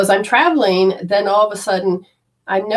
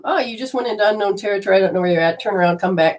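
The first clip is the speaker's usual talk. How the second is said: GPS voice; faster than usual. Retold or imitated. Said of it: "My G P S says".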